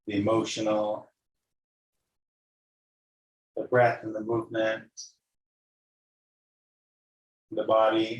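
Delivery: calm guided-meditation voice with long pauses; unhurried yoga teacher leading a body scan. Real, not acted. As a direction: guide them gently into noticing breath and body.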